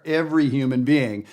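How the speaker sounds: every human being with the stress on every; natural shape. Shown as a demonstration. Teacher shows how speech naturally shapes a phrase. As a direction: let every lead, the rest fall away. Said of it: "I just said it there".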